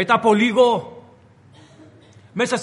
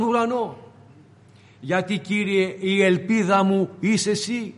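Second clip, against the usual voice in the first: prayer. Real, not acted. A priest praying to the Lord, hushed and earnest.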